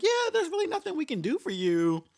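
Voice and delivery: high, singsong customer-service voice; mock the rep brushing her off; dismissive rep. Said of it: "she was just like".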